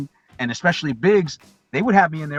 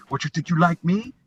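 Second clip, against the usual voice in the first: lightly voiced movie tough guy; amateur take on a gangster's challenge; movie gangster impression; 3 semitones higher than usual. Young fan quotes the movie to his friend, rough gangster impression. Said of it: "that's a terrible impression you're doing of him".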